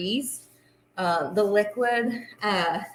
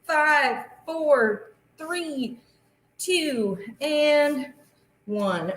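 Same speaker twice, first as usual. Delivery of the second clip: counting down; 5 semitones higher, much slower than usual. Shown as a demonstration. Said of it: "count down with me".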